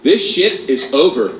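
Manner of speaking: slow, hint of a self-assured teacher; confident chaperone. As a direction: lay down the law, drawn out. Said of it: "liberal arts confidence".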